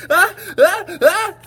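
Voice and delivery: building loud sneeze-like boo; shouted boo. A narrator's reading. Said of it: "shouted a little gray mouse".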